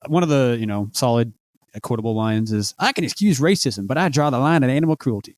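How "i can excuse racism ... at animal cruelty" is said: a light hint of a sitcom character's voice; Shirley's voice. Podcaster quoting a favourite line in a slightly voiced character tone. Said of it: "I did Shirley's accent for".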